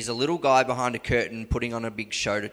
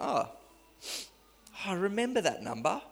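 quiet inner voice; 2 semitones higher, 7 dB quieter than usual. Retold or imitated. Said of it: "It's like".

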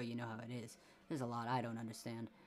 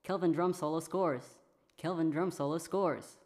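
excited announcement; 4 semitones higher, 5 dB louder than usual. Acted. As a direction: call it like the crowd is roaring. Radio game event repeated.

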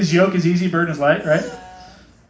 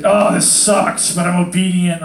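slow, loud martyr whine; grudging obedience; 3 semitones higher, 4 dB louder, slower than usual. Retold or imitated. Feeling like a slave to God's will, slow loud whine. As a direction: sigh it out like a put-upon servant. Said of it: "It's like".

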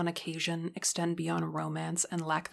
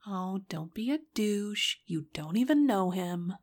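protective motherly scolding; 3 semitones higher, 4 dB louder than usual. Acted. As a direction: defend him like a mother. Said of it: "her voice motherly in its defense".

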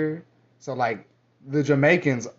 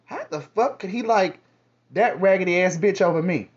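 mock quote; 2 semitones higher than usual. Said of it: "what the black girls were always saying".

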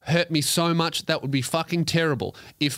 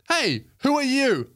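Batman growl; 10 semitones higher than usual. Acted. Host acting out Batman questioning a beaten criminal, hammed-up. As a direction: bark it like a brutal vigilante interrogating.

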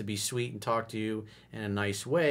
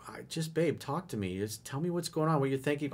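gentle coaxing; 3 semitones higher, 4 dB quieter than usual. Retold or imitated. Coaxing girlfriend to open up.

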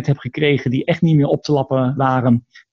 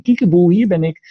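Furby call; 4 semitones higher, 3 dB louder than usual. Retold or imitated. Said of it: "riep hij".

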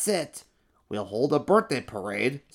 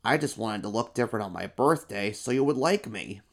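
sighing emperor. Acted. Emperor admits to the monsters he lied. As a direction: give up with a sigh. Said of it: "the emperor sighed".

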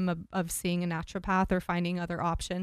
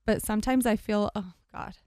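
holding back tears; teary-eyed. Real, not acted. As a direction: voice catching, fighting tears. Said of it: "getting a little teary-eyed over here".

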